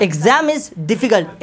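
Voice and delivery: slow, word by word, for the class to repeat; slow model sentence. Shown as a demonstration. Teacher drilling students, very slow and deliberate. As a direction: lay each word down slowly. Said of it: "teacher models sentence for repetition".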